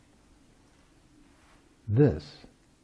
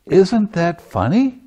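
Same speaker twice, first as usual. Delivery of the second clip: high, louder, gleeful prodding; retold laughing teacher, louder at the end; amused urging; 6 semitones higher, 6 dB louder than usual. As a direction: coax her to see the joke, rising and bright. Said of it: "I said".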